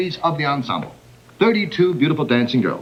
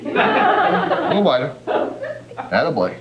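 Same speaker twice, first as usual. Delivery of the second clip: coaxing tamer; slower than usual. Acted. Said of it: "I play the part of Clyde".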